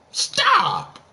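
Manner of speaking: very high exclaimed "Stop."; shrill stop. Pretend. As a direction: squeal it in protest. Protesting the Frank Gore pick.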